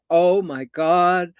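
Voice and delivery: very slow, drawn-out amazement; awed happy man. Retold or imitated. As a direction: stretch each word in wonder. Imitates man so happy to hear.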